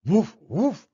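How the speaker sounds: high, punchy woofs; dog bark. Acted. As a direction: bark like an excited little dog. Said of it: "barked the dog".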